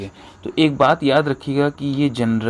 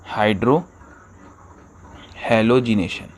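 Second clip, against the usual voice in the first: हाइड्रोहेलोजिनेशन drawn out slowly, each syllable spelled out; slow careful term; much slower than usual. Shown as a demonstration. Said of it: "teacher repeats term slowly".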